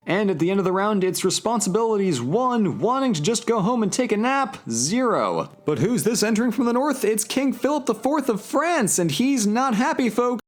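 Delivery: announcer calling the score at the end of a round; sports play-by-play. Acted. Narrating papal feuds for viewers, sportscaster play-by-play. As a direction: call it like a sportscaster reading the scoreboard.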